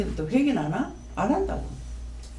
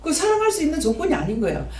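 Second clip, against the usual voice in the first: laughing protest; 6 semitones higher than usual. Retold or imitated. Laughing aside in retold argument.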